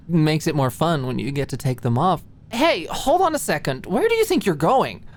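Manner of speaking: flirty tease turning to a playful challenge; lightly voiced Alicia, playful. Alicia's voice in the story.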